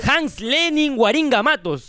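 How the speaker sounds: slow, drawn-out name announcement; slow repeat. Pretend. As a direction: repeat the name slowly for them. Repeats after "¿Cómo, cómo, cómo?.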